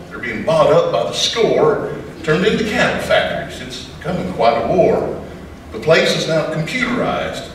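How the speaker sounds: rhythmic cowboy poem delivery; poem recitation. Acted. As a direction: recite it like a campfire poet.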